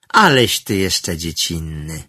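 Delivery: condescending. Acted. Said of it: "z pobłażliwą wyższością".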